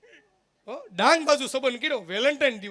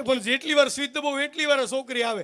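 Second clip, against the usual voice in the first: lightly raised, earnest uncle explaining; innocent uncle; 4 semitones higher, 3 dB louder than usual. Retold or imitated. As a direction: play the naive old uncle, a little higher. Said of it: "મને કે".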